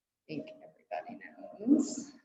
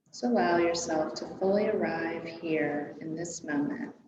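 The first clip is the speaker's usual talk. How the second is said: guided meditation. Real, not acted. Yoga teacher settling a class into their breath, calm guided meditation. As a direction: ease them gently into stillness.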